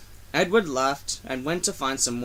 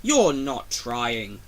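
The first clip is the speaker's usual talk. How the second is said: severe; 3 semitones lower, much slower than usual. Acted. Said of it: "talking to him severely".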